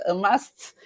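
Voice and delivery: ordinary delivery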